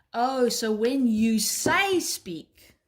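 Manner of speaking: slow, dawning realisation as the dog; dog's realisation. Acted. Trainer speaks for dog learning the cue, slow realisation. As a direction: voice the dog slowly catching on. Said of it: "And she goes".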